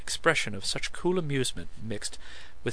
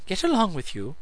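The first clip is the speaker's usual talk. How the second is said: smiling; 9 semitones higher, 6 dB louder than usual. A narrator's reading. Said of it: "she smiled".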